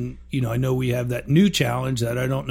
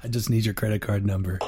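sultry hotline voice; 4 semitones lower, 4 dB quieter than usual. Pretend. Mock phone sex line.

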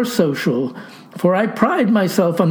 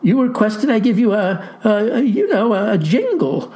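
stammering. Acted. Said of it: "stammers I".

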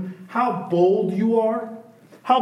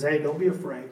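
gentle reassurance; 4 semitones lower, 5 dB quieter, faster than usual. Retold or imitated. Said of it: "He says".

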